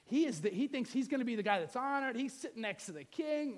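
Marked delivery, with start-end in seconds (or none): none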